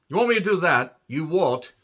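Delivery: amateur British impression, lightly put on; terrible British accent. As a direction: attempt a clumsy British accent. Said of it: "Terrible British accent".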